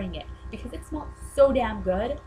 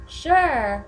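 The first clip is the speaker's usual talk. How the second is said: imitated British accent, higher and louder; one drawn word in a mock British accent; Harry; 5 semitones higher, 8 dB louder than usual. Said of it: "In, like, his cute accent".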